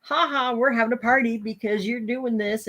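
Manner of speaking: high mocking little voice; taunting ants. Black ants in her head gloating at her, taunting. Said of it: "little black ants. And they're telling me".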